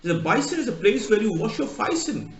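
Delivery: a light Cockney, "bison" for basin, "faice"; lightly imitating a Londoner saying "bison"; Cockney accent. Londoner explaining a basin, light Cockney accent. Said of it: "Just typical Cockney".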